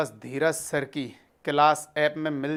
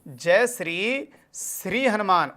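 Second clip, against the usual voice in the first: slow, deliberate chant of the memory trick; slow mnemonic; slower than usual. Shown as a demonstration. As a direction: lay it out word by word for the class. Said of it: "मैंने इधर की तरफ कहा". (धीमे, याद कराने वाले अंदाज़ में)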